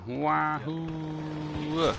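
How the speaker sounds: gleeful whoop. Real, not acted. Gamer whooping as he drops back down. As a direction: cheer as you jump. Jumping down, exclaiming.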